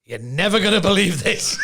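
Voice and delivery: God's line delivered loud for the laugh; loud punchline. Acted. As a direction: belt out the punchline in mock disbelief. God delivers the joke's punchline.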